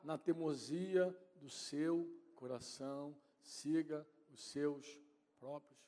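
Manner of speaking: slow, spaced-out reading with long pauses; deliberate pulpit reading, fading at the close; solemn scripture reading. Acted. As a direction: start strong, then let each phrase slow and soften. Reads the psalm aloud to congregation.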